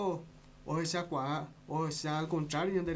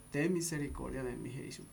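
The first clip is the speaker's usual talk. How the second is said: the plea again, much softer, fading out on Jesús; softer repeated plea; 3 semitones lower, 6 dB quieter than usual. Shown as a demonstration. Preacher repeats the blind man's plea to listeners, quiet and fading. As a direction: sink into a soft, fading cry for mercy. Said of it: "Una vez más".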